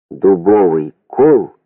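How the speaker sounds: ordinary delivery, nothing marked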